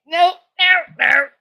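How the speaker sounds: loud, high-pitched mock protest; horrified refusal. Granddaughter refusing to believe she ate rabbit, loud horrified protest. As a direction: refuse it loudly, aghast.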